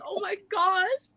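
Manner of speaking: slow, shrieking laugh-cry; can't believe it, laughing; laughing through the shock; laughing gasp. Retold or imitated.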